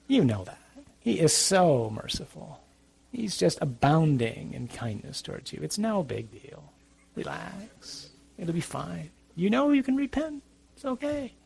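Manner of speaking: soft, coaxing tempter on the shoulder; little evil voice. Acted. The devil on your shoulder coaxes the sinner, a lightly soft sly tempter. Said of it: "the little evil one ... that little voice is on your shoulder going".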